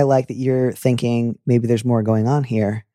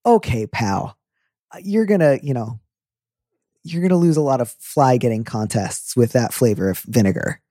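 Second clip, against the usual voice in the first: folksy scold. Retold or imitated. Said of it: "which is a very folksy way of".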